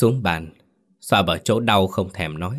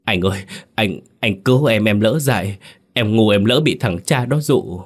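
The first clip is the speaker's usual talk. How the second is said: louder, desperate begging; tearful pleading, raised voice; crying plea; 2 semitones higher, 4 dB louder than usual. Acted. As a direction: cry out for his brother to save him. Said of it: "quỳ xuống ... mà khóc".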